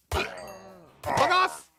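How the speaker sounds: high shout, "off" stretched with a long rise; taunting drawn-out curse; drawn-out yell. Real, not acted. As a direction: hold the word "off" as you yell. Yelling at raiders in game.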